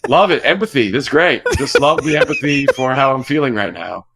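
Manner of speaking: mock-hurt sarcasm; sarcastic wounded complaint. Real, not acted. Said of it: "I love the way we move so briskly past me being sick".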